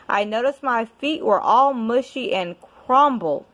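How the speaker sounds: lively storybook reading with rhyme; reading to a child. Acted. Parent reading a rhyming book to a child, storytelling voice. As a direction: read it like a bedtime picture book. Reads picture book aloud.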